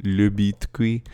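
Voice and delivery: slow showbiz billing of Le Biscuit; stand-up title. Pretend. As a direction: announce Le Biscuit like a show title. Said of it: "my new French stand-up".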